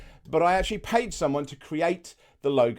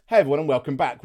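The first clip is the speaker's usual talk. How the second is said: first intro voice; 4 dB louder, much faster than usual. Shown as a demonstration. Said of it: "I just went with".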